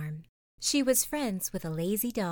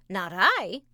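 noisy duck quacking; 7 dB louder than usual. Acted. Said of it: "quacked the noisy yellow duck".

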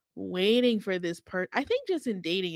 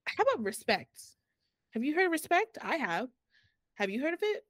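put-on British accent with high questioning rises; 7 semitones higher than usual. Host taking up the argument about respect, in a British accent. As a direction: challenge them in a put-on British voice. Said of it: "I'm gonna do a British accent".

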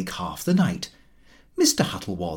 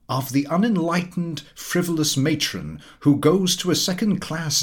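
pompous Mister Huttle; 4 semitones higher than usual. Acted. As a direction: lecture the table like a self-satisfied know-all. Huttle mocks a matron.

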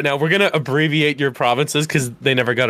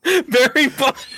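silly drawn-out voice; 9 semitones higher, much slower than usual. Acted. Mock answer, silly voice.

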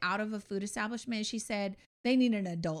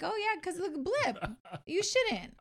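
high sarcastic agreement; mock agreement; 9 semitones higher than usual. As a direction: play along sarcastically.

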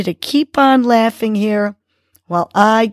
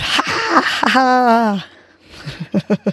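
forced demo laugh; 4 semitones higher, much slower than usual. Shown as a demonstration. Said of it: "and let it out".

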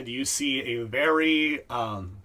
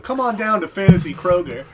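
mock ad; 6 semitones higher, 8 dB louder than usual. Mock store ad.

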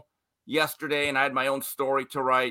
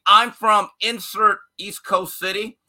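slow, higher mock East Coast boast; mock tough boast; 4 semitones higher, 4 dB louder, slower than usual. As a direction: draw it out like a self-important tough guy. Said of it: "than saying".

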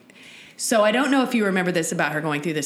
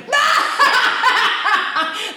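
high, loud mock outburst; imitated outburst; 5 dB louder than usual. Retelling three friends' shared reaction, high outburst. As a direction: burst out high, all at once. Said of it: "all three of us went".

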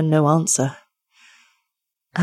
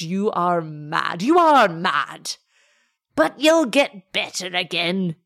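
put-on vehement old man. Old father insists the lover is mad, slow and vehement. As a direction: hammer it home, hoping it's madness. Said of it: "said the old man vehemently".

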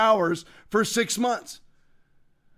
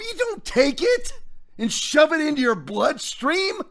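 preaching emphasis; 5 semitones higher than usual. Real, not acted.

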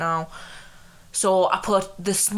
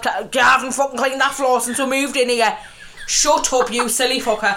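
loud, playful telling-off; mock angry rant; 4 semitones higher, 4 dB louder than usual. Real, not acted. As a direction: rant at her, half laughing.

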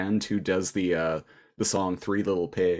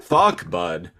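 mock Canadian; 5 semitones lower than usual. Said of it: "that's Eastern Canadian for sure".

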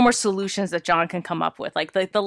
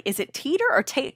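usual speaking voice

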